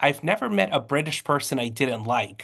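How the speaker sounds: ordinary talk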